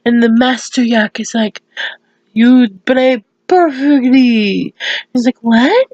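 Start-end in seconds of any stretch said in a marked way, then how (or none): 2.3-4.7 slow, drawn-out praise; imitating a yak's emphatic verdict; acted master yak. 5.4-5.9 short, high rising what; acted-out startled reaction; surprised question. Pinky startled by the praise.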